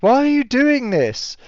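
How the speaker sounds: high, pleading whimper of a scared creature; crying plea. Acted. Bear Ara pleads with attacker, crying high. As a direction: wail it out through tears, high. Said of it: "Ara's response of, like".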